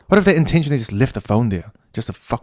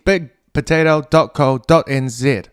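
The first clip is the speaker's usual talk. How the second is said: ad read; 2 semitones higher, 3 dB louder than usual. Shown as a demonstration. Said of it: "I'm halfway through an ad".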